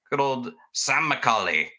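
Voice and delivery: put-on botched stab at a Scottish accent; half-hearted, unconvincing Scottish lilt; failed Scottish accent. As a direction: try Scottish and miss. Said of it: "that's not a Scottish accent".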